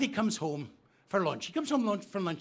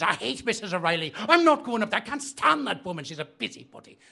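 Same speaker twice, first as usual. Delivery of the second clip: indignant refusal; 2 semitones higher, 4 dB louder than usual. Acted. Molly refuses in joke.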